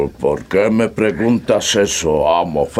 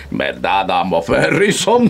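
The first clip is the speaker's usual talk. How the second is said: eager; 2 semitones higher than usual. Acted. Servant gloats, seeking approval.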